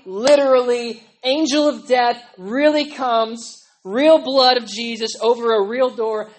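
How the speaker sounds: loud, insistent preaching; emphatic yelling. Real, not acted. Preacher insisting the salvation is real, yelling. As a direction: hammer each phrase home loudly. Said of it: "I'm sorry I'm yelling so much".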